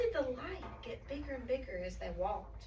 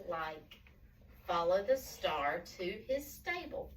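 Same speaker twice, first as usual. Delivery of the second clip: slow, expressive good-news reading; storybook announcement; slower than usual. A narrator's reading. Voice telling shepherds good news, slow storytelling. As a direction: proclaim gently, drawing out key words. Reads angel's message to children.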